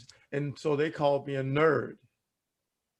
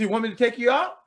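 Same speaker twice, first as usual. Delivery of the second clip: coach voice; 7 semitones higher, 3 dB louder, much faster than usual. Retold or imitated. Coach offers to pull him.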